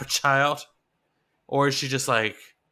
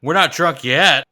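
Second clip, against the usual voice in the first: lightly voiced Dale; 6 dB louder than usual. Favorite line quoted.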